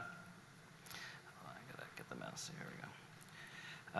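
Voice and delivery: muttered under breath to himself; quiet aside to himself while finding the mouse; whispered aside. Real, not acted.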